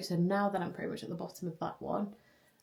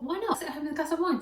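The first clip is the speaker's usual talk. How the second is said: higher, fast, cheeky self-talk; playful inner voice; 7 semitones higher, much faster than usual. Retold or imitated. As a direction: toss it off like a tempting little idea. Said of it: "but I thought".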